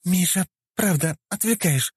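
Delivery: высокий недовольный голос; упрекни мужа; хмурая жена. Acted. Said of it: "нахмурилась Вика". (высокий упрёк жены)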